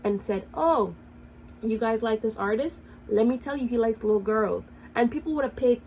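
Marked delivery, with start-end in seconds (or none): 0.5-4.7 pretend public warning. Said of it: "screamed her lungs out".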